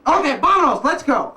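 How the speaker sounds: lightly voiced guard letting them leave; casual soldier. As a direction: wave them on to go. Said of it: "They go".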